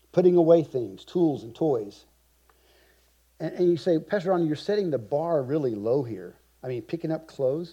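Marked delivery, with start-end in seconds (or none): none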